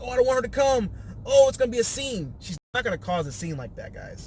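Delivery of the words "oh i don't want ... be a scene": mock gossip. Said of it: "it's like".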